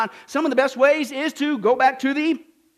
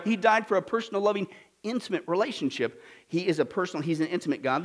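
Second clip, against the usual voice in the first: sincere; 4 semitones lower, 5 dB quieter than usual. Shown as a demonstration. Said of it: "That's right".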